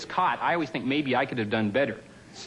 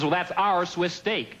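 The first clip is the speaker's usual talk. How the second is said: slower, smug repeat stressing "our"; smug manager repeating; 5 semitones higher, slower than usual. Retold or imitated. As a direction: say it again, slow and unbudging. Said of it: "He says".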